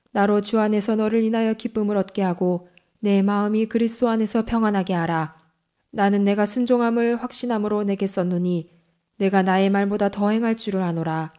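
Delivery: normal talking voice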